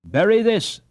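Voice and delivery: high, mock-grand fairy decree; playful solemnity. Annie as fairy godmother granting Hans his wish, mock-grand. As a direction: pronounce it like a fairy queen. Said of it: "with playful solemnity".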